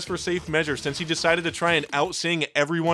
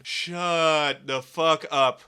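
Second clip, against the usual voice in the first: slow dragged-out deadpan retort; much slower than usual. Acted. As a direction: drag it out, fed up. Fed-up retort.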